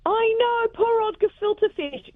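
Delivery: high, slow sympathetic sigh over poor gefilte fish; mock pity. Real, not acted. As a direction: feel sorry for the dish, playfully. Pitying the maligned dish.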